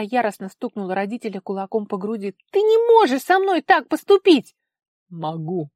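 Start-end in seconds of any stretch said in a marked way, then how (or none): 2.5-4.5 much higher, loud furious cry; outraged protest. A narrator's reading. Daughter pounding her father's chest, high furious cry. 5.1-5.7 satisfied bark. A narrator's reading. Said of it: "удовлетворённо рявкнул отец".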